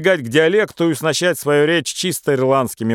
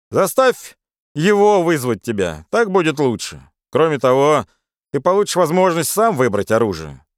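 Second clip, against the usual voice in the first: brash Irish friend; 3 semitones higher than usual. Acted. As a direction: egg him on with swagger. Charles advises.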